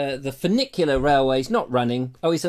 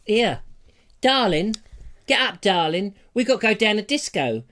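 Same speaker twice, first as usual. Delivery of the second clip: mock Romeo; 3 semitones higher than usual. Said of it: "He goes".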